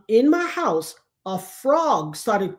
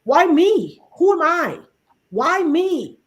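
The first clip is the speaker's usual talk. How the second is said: overwhelmed; 6 semitones higher, 4 dB louder, slower than usual. Retold or imitated. Overwhelmed questioning.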